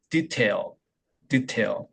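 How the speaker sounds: "detail" low-key, first vowel reduced; English detail. Shown as a demonstration. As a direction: shrink "de" and stress "tail" in "detail". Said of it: "여기도 모음이 없어요". (영어식으로 첫 모음을 줄인 "detail")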